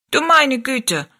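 high, lightly voiced tiny old lady exclaiming; a little old woman throwing up her hands; fussy little old woman. A narrator's reading. Tiny old Mannikin scolds the other dwarfs, lightly voiced high.

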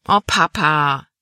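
slow drawn-out whine; whining. A narrator's reading. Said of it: "jammerte Libby". (langsam gedehntes Jammern)

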